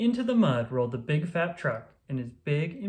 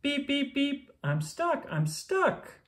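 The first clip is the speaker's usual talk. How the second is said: stuck and pleading; 11 semitones higher, slower than usual. Acted. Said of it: "cried the Little Blue Truck".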